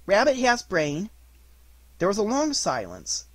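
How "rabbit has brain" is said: higher, slow echoing agreement; Piglet. A narrator's reading. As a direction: agree slowly as a little piglet. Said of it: "said Piglet".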